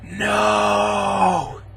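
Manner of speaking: high, hammed-up wail of no at a dead girl; mock anguish. Reviewer mocking the hero's grief over the girl, hammed-up high wail. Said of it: "for, like, five minutes, he's like".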